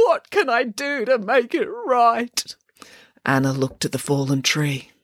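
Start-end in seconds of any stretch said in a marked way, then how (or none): 0.1-2.5 put-on slow, higher tearful child; high tearful plea; pleading small boy. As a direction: beg to make amends.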